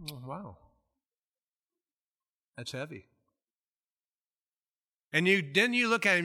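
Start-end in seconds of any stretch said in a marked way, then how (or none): 0.1-3.1 mock sympathy. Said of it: "And you're biting your".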